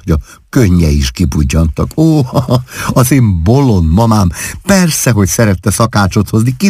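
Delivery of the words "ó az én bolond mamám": giggling fondly through the words; laughing. A narrator's reading. Wife laughing at her mother's remark, giggling. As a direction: laugh it out at silly mama. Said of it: "Klárika úgy kaszagott".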